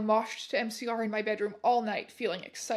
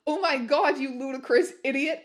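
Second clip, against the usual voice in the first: angry shout; 2 semitones higher, 5 dB louder than usual. Acted. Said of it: "they both shouted angrily".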